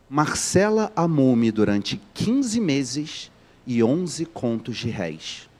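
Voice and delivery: slow, deliberate quote from the book; dry literary reading. Shown as a demonstration. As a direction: read each word slowly to land the irony. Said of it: "Vou repetir".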